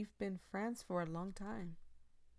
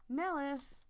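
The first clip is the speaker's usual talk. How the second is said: sharp scolding call of his name, higher and louder; scolding shout; 7 semitones higher, 5 dB louder than usual. Acted. Player scolding the teasing coworker Nellis, loud scolding shout. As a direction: snap his name at him like a telling-off. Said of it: "call my name just like that tomorrow morning when you're scolding".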